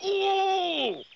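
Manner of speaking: very high drawn-out "ooh"; high-pitched yelp, held long; loud cry of pain. A narrator's reading. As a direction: howl as if suddenly hurt. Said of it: "a loud cry from Mister Curry".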